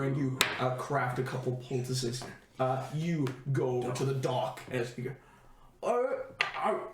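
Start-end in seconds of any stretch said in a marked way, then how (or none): 5.8-6.8 startled ohs. Acted. NPC startled at injured party.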